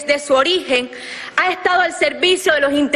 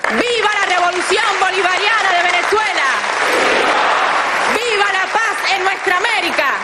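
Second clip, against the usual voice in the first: rousing, raised slogan cries; ranting dictator speech; 4 semitones higher than usual. Real, not acted. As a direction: call it out to a rally crowd. Slogans shouted at end of statement. (consignas gritadas con fervor)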